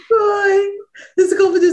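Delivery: giggling while pointing out the slip; laughing. Real, not acted. Teacher laughs at student's slip.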